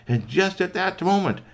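excited storyteller lead-in; suspenseful narration. A narrator's reading. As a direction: build toward a sudden turn.

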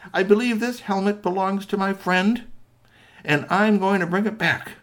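high, firm little-character voice; polite little robot. Acted. Squeaky Toy bowing to trolls over the helmet, politely firm. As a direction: declare it courteously, high and steady.

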